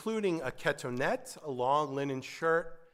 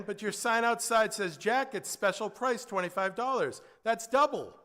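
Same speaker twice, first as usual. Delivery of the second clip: indignant protest; 6 semitones higher than usual. Acted. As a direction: argue it back at the tailor. Customer protests price to tailor.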